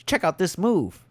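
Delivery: slow, drawn-out imitation of a bad narrator; mock a boring voice-over, dragging the words; slow parody of dull game narration. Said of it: "there was no inflection".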